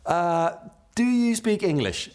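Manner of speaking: very high, slow, tentative asking; mock-timid, stretched-out question; awkward tourist question.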